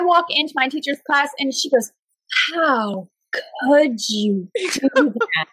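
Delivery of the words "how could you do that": slow, spaced-out imitated scolding; grave reproach. Teacher to the villain of the prank, grave reproach. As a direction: leave heavy pauses between the words.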